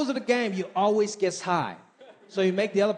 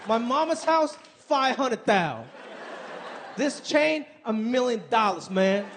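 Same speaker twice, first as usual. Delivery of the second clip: bragging rapper; slower than usual. Retold or imitated. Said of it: "They love to brag".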